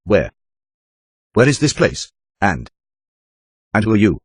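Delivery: frightened captive woman, lightly voiced; a hint of a trembling voice; shaky, afraid. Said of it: "address me with her shaky voice".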